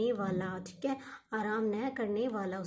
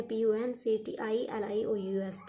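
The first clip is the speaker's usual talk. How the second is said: slow spelling; slower than usual. Shown as a demonstration. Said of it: "spelling देख लीजिए".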